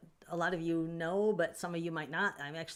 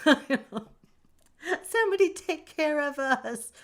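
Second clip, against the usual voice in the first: higher, hammed-up whiny plea for help; mock plea; 9 semitones higher, 8 dB louder than usual. Streamer jokingly begging chat to look after her and hurt uncle, mock whine. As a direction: wail it as a joke cry for rescue.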